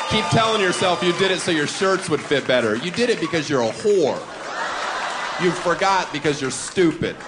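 a jokey yelled tirade; mock angry rant. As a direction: rail at them for the laugh. Ranting shout at the women.

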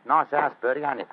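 chatty Cockney workman; loud, casual Cockney; Cockney accent. Acted. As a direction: toss it off in Cockney. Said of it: "My Cockney accent doesn't compare with yours".

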